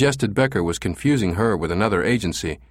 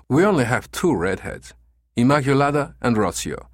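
put-on higher, lightly accented manager closing the matter; firm agency manager; 4 semitones higher than usual. Manager ends the call with the caller, firm dismissal.

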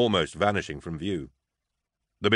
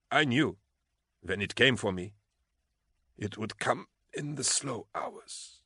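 dying whisper; 3 semitones higher, 6 dB quieter than usual. A narrator's reading. Dying man's last words.

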